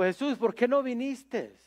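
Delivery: a retold plea, lightly frustrated; sad frustration. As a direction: raise the pitch in understated hurt reproach. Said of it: "de tristeza y frustración dijo".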